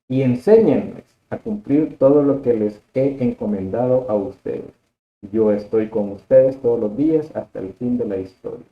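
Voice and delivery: measured, emphatic Gospel reading; scripture proclamation. Acted. Lay teacher proclaims Matthew's Gospel to the listeners, solemn scripture reading. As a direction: proclaim the Gospel with firm intensity. Reads Gospel aloud to group.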